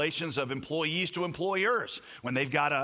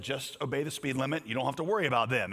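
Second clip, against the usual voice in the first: calm reply. Retold or imitated. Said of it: "looked at me very calmly and said".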